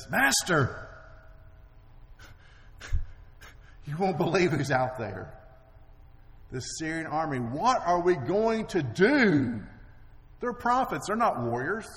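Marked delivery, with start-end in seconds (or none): 0.1-9.6 panicked servant. Retold or imitated.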